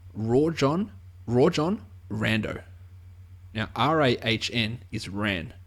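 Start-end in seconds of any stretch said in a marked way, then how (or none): 0.1-2.6 "Rajon" as RAW-jon with a hard j, "Rondo" like "Randoh"; his own take on the name. Shown as a demonstration. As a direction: say "Rajon Rondo" slowly, hard j, Ran-doh. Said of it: "no way that is how you pronounce".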